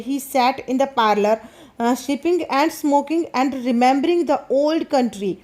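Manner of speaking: slow, careful reading aloud of the English text; slow story reading. A narrator's reading. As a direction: read each phrase slowly for the class. (धीमी कहानी पढ़ाई)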